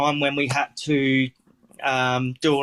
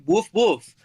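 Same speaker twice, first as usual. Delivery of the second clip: higher-pitched worded "woof woof"; mock bark, pitched up; imitated dog bark; 5 semitones higher than usual. Retelling interpreter miming a dog.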